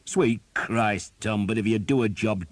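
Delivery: captain berating a failed ambush; angry scolding. A narrator's reading. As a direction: tear into him. Captain scolding his archer.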